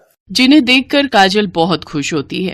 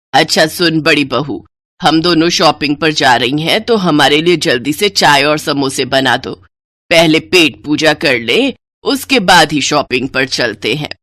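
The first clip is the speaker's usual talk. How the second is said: lower, curt commanding voice; bossy mother-in-law; 4 semitones lower than usual. Acted. Mother-in-law orders the elder bride to make tea, lower and curt. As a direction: order her around like a servant.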